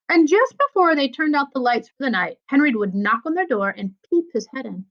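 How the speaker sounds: put-on lively read-aloud to children; story narration. A narrator's reading. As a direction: tell the story to a class, with feeling. Teacher reads novel aloud.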